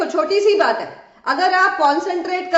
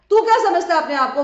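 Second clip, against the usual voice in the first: fast, mildly raised quarrel voice; mock shouting; 3 semitones higher, 4 dB louder, faster than usual. Y answering X in a staged quarrel, mock shouting. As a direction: fire back as the other arguer, half-shouted. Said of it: "इधर से Y भी चिल्ला रहा है".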